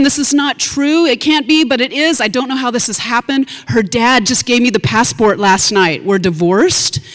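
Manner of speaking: reenacting fake sobs, pitch up; mock crying. Mother at customs fake-cries to the officer, high and tearful. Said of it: "I immediately start sobbing".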